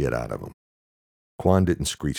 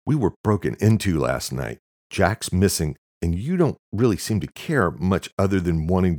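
louder, higher blurted accusation; angry outburst; 4 semitones higher, 4 dB louder than usual. Acted. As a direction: let the anger burst out. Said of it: "Quan blurted out".

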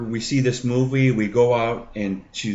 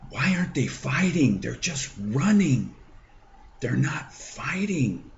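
lightly voiced young son; 5 semitones higher than usual. Five-year-old son's worried question.

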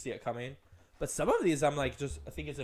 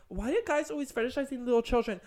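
higher whiny mock voice; mock whine; 8 semitones higher than usual. Mocking women complaining about guys, whiny. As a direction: whine it like a put-upon victim. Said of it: "you're gonna be like".

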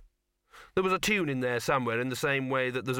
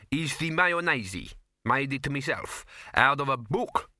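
proudly; 3 semitones higher than usual. Acted. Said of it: "he added proudly".

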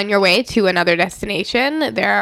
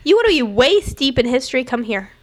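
fast, higher, pumped-up pitch; hyped sales pitch; 4 semitones higher, faster than usual. Pretend. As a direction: sell it like a carnival barker. Pitch repeated with variation.

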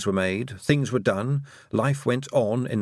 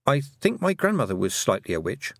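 proud; 4 semitones higher than usual. Acted. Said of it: "with a touch of pride".

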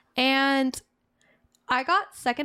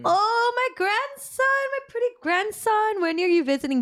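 korean ajumma; 11 semitones higher than usual. Retold or imitated. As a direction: squeal it like an old auntie calling her grandson. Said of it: "like, a old Korean ajumma, like, speaking loud on the phone".

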